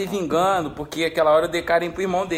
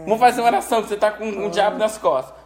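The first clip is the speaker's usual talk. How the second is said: high, loud invoking of the saints; worked-up, raised-pitch dismay; exasperated alarm; 5 semitones higher, 4 dB louder than usual. Real, not acted. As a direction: exclaim as if the pet is possessed. Mock alarm at possessed pet.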